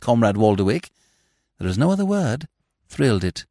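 lightly theatrical, savoured confession; a hint of soulful orator; sentimental gentleman. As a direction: wax romantic with mock solemnity. Smith waxes sentimental about her.

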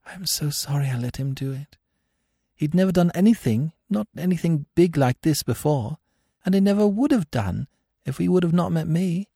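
high, tearful confession; shaking voice. A narrator's reading. Captive woman apologising for her man, tearful shaking voice. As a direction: confess on the edge of tears. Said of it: "her voice shook".

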